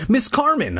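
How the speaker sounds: high-pitched mock shout. A narrator's reading. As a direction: call her name as if shouting, without real volume. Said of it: "I shouted".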